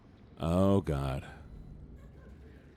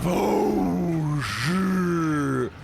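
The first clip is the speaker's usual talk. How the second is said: startled swearing; much slower than usual. Real, not acted. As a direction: jolt at the scare. Jump scare.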